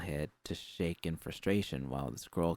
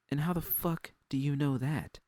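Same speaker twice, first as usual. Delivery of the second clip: angry challenge; 8 semitones higher than usual. Acted. Judy challenges Susie.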